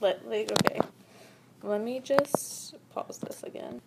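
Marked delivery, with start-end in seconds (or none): 1.6-3.8 whispering. Real, not acted. Aside while pausing recording.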